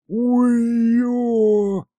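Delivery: громкий высокий крик от боли; заори, обжёгшись; внезапный вопль. A narrator's reading. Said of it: "заорал вдруг Аристофан". (бес обжёг лапу и громко, высоко орёт от боли)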